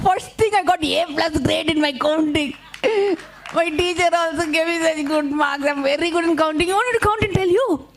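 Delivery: high, squeaky show-off bunny; boastful rabbit. Acted. Rabbit boasts to Anansi about counting, high squeaky bragging. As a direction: brag in a giggly high voice. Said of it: "So rabbit says".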